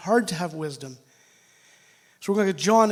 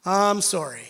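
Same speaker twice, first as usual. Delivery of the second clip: sorry, but they should go eighty; mock apology to daughter; 6 dB louder than usual. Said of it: "I'm like".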